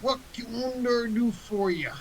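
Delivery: high, slow tiny helper voice; pixie. Acted. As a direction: greet them as a tiny shopkeeper. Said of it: "and goes".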